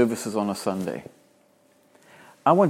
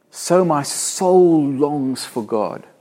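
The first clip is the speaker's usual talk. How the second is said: slow yearning; 3 semitones higher, much slower than usual. Acted. Preacher reading psalm with feeling.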